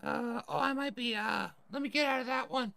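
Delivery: high-pitched tough guy voice; weirdo tough guy. Acted. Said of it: "this is Jesse Braxton".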